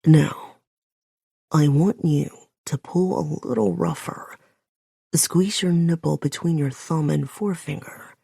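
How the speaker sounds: a hint of a low male command, firm first word; lightly voiced man, coaxing rougher; low growling man. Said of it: "deep, growling voice of his so low".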